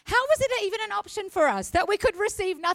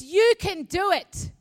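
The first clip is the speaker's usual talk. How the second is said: voice of grace; 7 semitones higher, 5 dB louder than usual. Pretend. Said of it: "Grace says".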